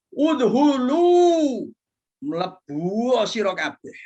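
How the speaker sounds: a high, loud, slow drawn-out order; the queen ant calling her colony inside; shouted command. Acted. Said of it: "seruan yang sambil berteriak".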